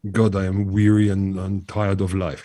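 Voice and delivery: a hint of a Dutch accent, slow; lightly voiced weary Dutch painter. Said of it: "that's my Danish Dutch accent".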